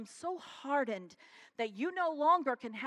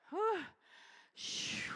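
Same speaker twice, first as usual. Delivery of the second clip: relieved whew; 8 semitones higher, 5 dB quieter than usual. Real, not acted. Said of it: "I'm sweating".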